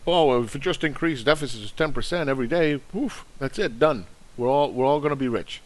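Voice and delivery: lightly voiced giddy dreamer, sneering at them; mock gleeful believer. Mocking deficit believers.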